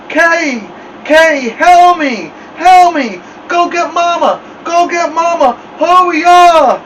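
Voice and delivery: high, loud, drawn-out muffled pleading; mumbled cry. A narrator's reading. Stuck boy begs his brother to fetch Mama, mumbled cry. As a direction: yell with your lips stuck fast. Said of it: "sounded like he had something in his mouth".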